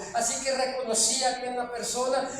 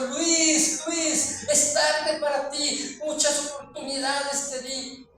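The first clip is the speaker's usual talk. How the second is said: voice breaking; slower than usual. Retold or imitated. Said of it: "su voz se le quebrantó".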